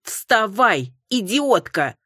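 enraged mother shouting; furious shout. A narrator's reading. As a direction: yell her out of bed in rage. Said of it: "побагровела дама".

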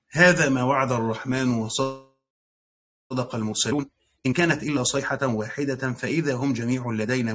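steady, flowing recitation; Quran recitation. Shown as a demonstration. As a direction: recite the passage evenly, verse by verse. Long verse recitation closing lesson.

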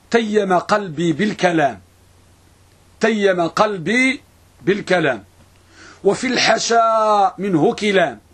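measured poem reading with drawn-out vowels; verse recitation. Real, not acted. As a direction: recite the verse slowly, stretching the long syllables.

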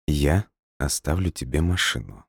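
soft, smooth coaxing voice; ingratiating. Acted. Leskov placating Nadya, soft ingratiating. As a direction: coax her gently. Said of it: "вкрадчиво ответил Лесков".

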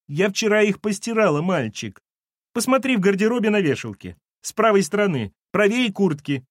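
high-pitched, plaintive voice; sobbing. Acted. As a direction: give directions in a weepy singsong. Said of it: "провсхлипывала Валентина".

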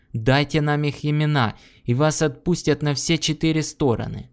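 ringing, forceful voice. Acted. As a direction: press him with a ringing voice. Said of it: "Голос его зазвенел".

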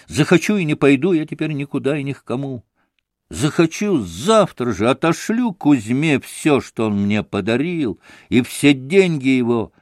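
rising hysterical defiance, half shouted; a mild hammed-up frenzy of defiance; hysterical outburst. Grushenka to Alyosha, mildly hysterical defiance. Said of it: "истерически прокричала".

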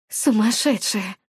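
ordinary delivery

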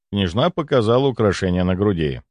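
ordinary delivery, nothing marked

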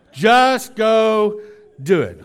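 high, loud impatient push; mock-exasperated command; exasperated wife. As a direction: pitch it up and shove him along. Acted wife losing patience.

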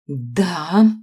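loud, venomous hiss of a yes; a hissed, loud furious yes. A narrator's reading. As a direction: spit it out with hatred. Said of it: "прошипела Аманда".

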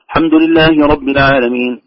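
"الحمد" begun without its opening "a"; dropped hamza. Retold or imitated. Teacher imitating reciters who hide the hamza, clipped start of "الحمد". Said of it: "البعض لا يظهر الهمزة أبدًا".

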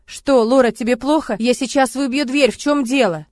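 loud, high, alarmed; alarmed shout. Acted. Man shouting he will break the door, alarmed. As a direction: shout your worry through the door.

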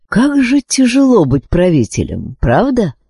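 understanding and kindly; sincere sympathy. A narrator's reading. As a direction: commiserate with a fellow ruler. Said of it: "с искренним сочувствием произнёс Энканцо".

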